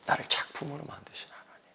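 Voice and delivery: 작품으로 breathed in a soft whisper. Shown as a demonstration. Pastor repeating to the congregation, whispered. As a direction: murmur it to yourself as a secret. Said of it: "repeated after the loud take".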